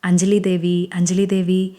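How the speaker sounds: a hint of a mythological hero declaiming; lightly hammed-up booming stage lines; grand stage dialogue. Manish playing a stage king for Anjali, mild grandeur. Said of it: "అని గంభీరంగా డైలాగులు చెప్తాడు".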